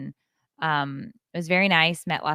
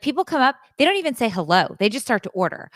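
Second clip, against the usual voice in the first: put-on high-pitched, louder teenage complaint; imitated indignant rant; 7 semitones higher, 4 dB louder, faster than usual. Daughter complaining about customers to mother, indignant. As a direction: vent it with raised pitch.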